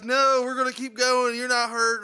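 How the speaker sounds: loud, high taunting reply; mocking friends. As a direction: brush him off loudly. Friends refusing to stop.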